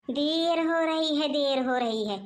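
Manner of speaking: slow, drawn-out sarcastic repetition; mocking echo. Mother-in-law mimics daughter-in-law's excuse, slow and mocking. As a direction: throw the excuse back, dragging it out.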